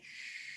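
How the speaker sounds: long, soft "shh"; drawn-out whispered shush. Shown as a demonstration. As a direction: hush someone very quietly. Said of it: "assuming sh and punctuation".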